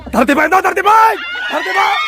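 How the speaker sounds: high, rising number call; excited shout. Real, not acted. Relaying the number to the player. (pasigaw na pagtawag ng numero)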